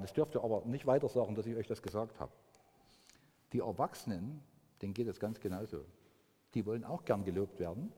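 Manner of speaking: soft, low, confiding tone for a secret; telling the kids a secret, hushed and soft. Acted. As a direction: lean in and share it softly with the children.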